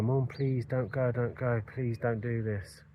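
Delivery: desperate son begging mum to stay. Retold or imitated. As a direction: plead with her not to leave. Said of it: "I was begging with her".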